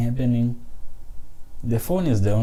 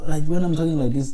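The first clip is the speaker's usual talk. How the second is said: raised voice; 5 semitones higher than usual. Shown as a demonstration. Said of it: "this is not my normal voice".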